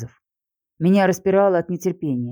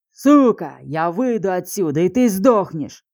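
furious yell; slower than usual. Acted. Kirsanov jumps up and screams threats at her. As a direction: explode at her with a roared threat. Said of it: "заорал Кирсанов".

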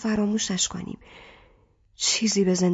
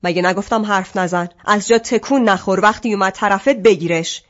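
louder, sharp motherly rebuke; exasperated mother snapping orders; stern scolding; 5 dB louder than usual. Acted. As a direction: cut the crying child off firmly. Mother scolds crying daughter.

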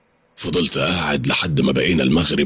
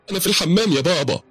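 put-on high, small boy's voice; child's voice; 13 semitones higher, faster than usual. Son answering his father from the bathroom, high child voice. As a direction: answer like a little boy.

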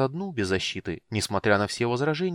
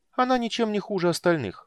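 higher, bright-eyed kender; cheerful kender voice; 12 semitones higher than usual. A narrator's reading. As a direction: play the carefree kender.

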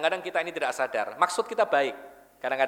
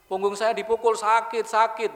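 put-on higher, whiny little child complaining of pain; imitating a crying child; 4 semitones higher than usual. Hurt child tells his mother he was hit, mock crying. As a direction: whimper it like a hurt kid. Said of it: "Sambil nangis-nangis".

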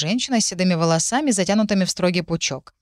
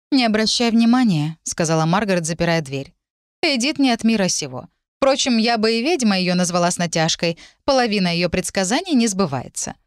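mild motherly dismissal; lightly voiced dismissive mother; 3 semitones higher than usual. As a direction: wave it away as a practical mother.

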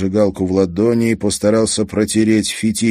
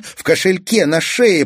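prompting; 11 semitones higher, 4 dB louder than usual. Acted. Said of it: "подсказал Казик".

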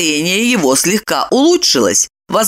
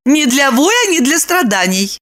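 high, matter-of-fact assurance; assuring; 8 semitones higher than usual. A narrator's reading. Lipochka tells Roman not to suffer, assuring. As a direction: assure him in a high woman's voice. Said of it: "заверила Липочка".

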